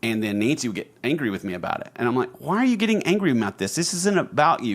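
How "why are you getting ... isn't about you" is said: high, fast mock indignation; retold indignant self. Husband retelling what he said to his wife, high and defensive. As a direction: replay your younger self protesting, high.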